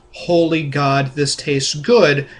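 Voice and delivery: mild mock yell, slow and emphatic; half-hearted holler, drawing each word out; mock scream. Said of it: "would scream at the top of his lungs".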